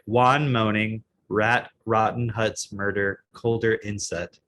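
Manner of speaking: slow, matter-of-fact word-by-word read; words read as normal words. Shown as a demonstration. Showing cohost how it reads without accent, word by word. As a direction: say each word separately, with no accent. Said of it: "just say the words like they're normal words".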